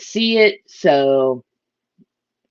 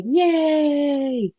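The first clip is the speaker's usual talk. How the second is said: little cheer; 10 semitones higher than usual. Real, not acted. Husband stays home from work.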